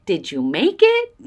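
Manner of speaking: whisper. Real, not acted. Asking the sender about the gift.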